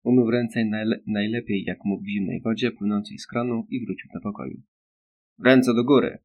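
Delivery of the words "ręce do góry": loud merciless shout of hands up; roar. Acted. Boy ambushing Winston, loud mock-menacing shout. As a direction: bark the order loudly at Winston. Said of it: "ryknął bezlitosny głos".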